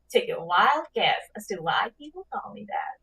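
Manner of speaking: hushed, voiceless genie whisper; whispered genie aside. Pretend. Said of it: "give it your best genie voice".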